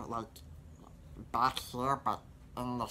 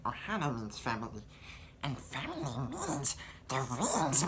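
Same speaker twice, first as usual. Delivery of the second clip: Stitch voice. Shown as a demonstration. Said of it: "as I'll show now".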